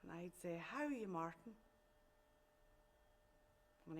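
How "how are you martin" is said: understated, lilting hello to a secret love; shy greeting. Acted. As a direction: answer him gently, pitch lifting then falling. Her reply to secret love's greeting.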